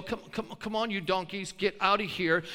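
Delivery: a touch of a meek herder; mock timid shooing. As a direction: gently coax them out, no force. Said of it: "Jesus didn't go".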